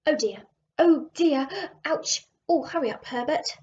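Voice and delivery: a hint of a flustered old keeper; fretful old man. Old keeper fretting to the coast guard, mildly flustered. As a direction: fuss and fret, mildly alarmed. Keeper frightened, being towed.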